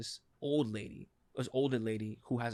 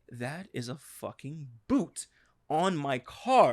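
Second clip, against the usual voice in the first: slow, deliberate disbelief, last words louder; pissed off; 4 dB louder, much slower than usual. Retold or imitated. Telling friends about finding the boot, slow and angry. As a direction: spell out each word, fed up. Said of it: "Nigga, I was pissed".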